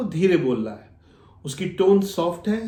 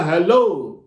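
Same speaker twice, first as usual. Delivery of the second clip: हेलो said louder, echoing the caller; matching loud hello; 4 dB louder, much slower than usual. Shown as a demonstration. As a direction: answer हेलो at the same raised level. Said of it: "तो आपको भी बोलना".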